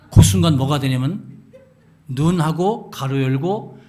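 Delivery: loud, laughing tell. Real, not acted. Preacher laughing loudly while telling men's weakness. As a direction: laugh through it.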